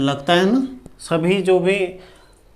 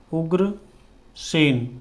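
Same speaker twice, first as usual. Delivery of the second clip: उग्रसेन drawn out very slowly while writing; slow dictation of उग्रसेन; slow spelled-out word; 3 dB quieter, much slower than usual. Shown as a demonstration. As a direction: stretch उग्रसेन syllable by syllable. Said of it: "उग्रसेन इस तरह से हो जाएगा".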